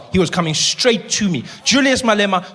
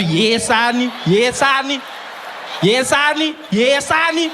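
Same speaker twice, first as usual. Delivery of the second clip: ramp it up like a hammed-up threat; rising mock yell; 7 semitones higher, slower than usual. Comedian builds fake bravado against Malema, rising yell. Escalating repeated line.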